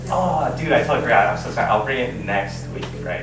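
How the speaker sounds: loud, high start easing down; hammed-up apology. Friend excusing the forgotten card, overly apologetic. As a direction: imitate a friend's overdone excuse.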